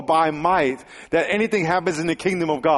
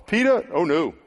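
freaked out; 6 semitones higher than usual. Retold or imitated. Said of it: "I'd be like".

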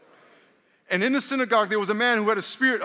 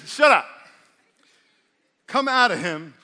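forceful rebuke; 6 dB louder than usual. Retold or imitated. Preacher voicing Jesus commanding the demon, loud rebuke.

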